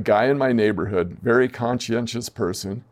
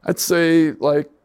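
higher-pitched, tentative estimate with pauses; retold hesitant guess; 4 semitones higher than usual. Neighbor guessing a coach's extra pay, hesitant. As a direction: imitate someone cautiously venturing a number.

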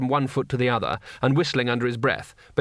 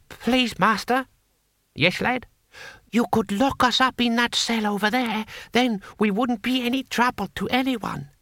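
much higher, timid guard's voice; pleading captive guard; 10 semitones higher than usual. Acted. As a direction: plead in a high voice with your captor.

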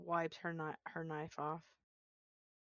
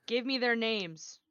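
loud, hard threat; menacing demand; 5 semitones higher, 9 dB louder than usual. Acted. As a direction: demand the names forcefully. Latari threatens at knifepoint.

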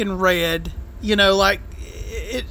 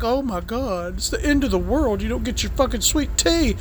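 mock melodrama; 3 dB quieter than usual. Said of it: "He's making a big deal out of".

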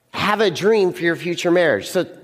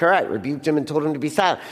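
quick, offhand read-through; flat casual reading; 5 semitones lower, faster than usual. Shown as a demonstration. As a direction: breeze past the words like they mean nothing. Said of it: "Let's not just read the words and be like".

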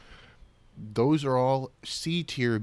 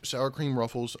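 words pushed out on a burp; 4 dB quieter than usual. Real, not acted. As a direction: burp right through it. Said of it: "excuse me for the burp".

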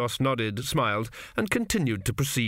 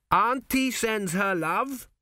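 said loudly; 11 semitones higher, much slower than usual. A narrator's reading. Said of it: "he said loudly".

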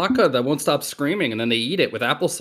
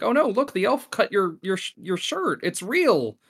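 higher-pitched, play-acted dismay; mock alarm; 6 semitones higher than usual. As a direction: pretend to discover it in alarm. Acting out alarmed parent.

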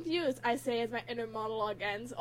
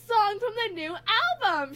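high, louder excited read; a restrained scream, raised in pitch; mild acted scream; 8 semitones higher, 5 dB louder than usual. A narrator's reading. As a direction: push it up without really screaming. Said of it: "she practically screams".

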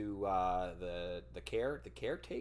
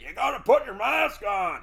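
higher and louder, ordering; mock bossy nurse; 10 semitones higher, 10 dB louder than usual. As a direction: imitate the pushy nurse insisting. Nurse arguing over mask.

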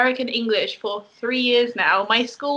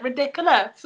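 Welsh ridiculous; 3 semitones higher than usual. Retold or imitated. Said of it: "In Wales, they're like".

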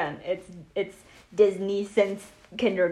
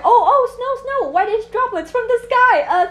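high, loud excited outburst; retold excitement; 11 semitones higher, 7 dB louder than usual. Guest retells seeing snow in training, loud excited blurting. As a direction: blurt it out high, groping for the word.

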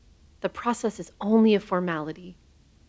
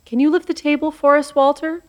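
calling out; 7 semitones higher, 7 dB louder than usual. Acted. Calling the spirit to act.

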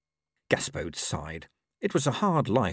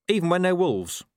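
lightly raised gruff dog; a hint of a streetwise dog; scruffy dog voice; 9 semitones higher, 4 dB louder than usual. A narrator's reading. Gaspode adds.

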